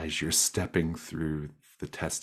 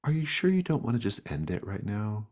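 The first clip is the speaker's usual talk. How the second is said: higher, faster sweet menacing voice; creepy gloam voice; 6 semitones higher, faster than usual. Acted. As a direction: tempt them lightly, sing-song. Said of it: "another one of the gloams says".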